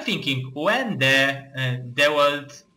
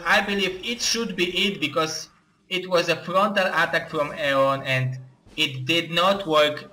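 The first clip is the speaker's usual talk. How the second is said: ordinary delivery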